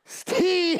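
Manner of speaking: high, loud, stretched outburst; exasperated, drawn-out shout; insistent correction. Acted. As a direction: cry out the syllable to correct them. Corrects housekeeper's mangling of his name.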